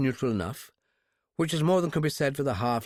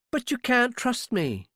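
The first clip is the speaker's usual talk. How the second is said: put-on high, slow insisting young woman; persistent girl; 11 semitones higher, slower than usual. Captive girl insists to her captor he can't trust her. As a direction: keep pushing the point.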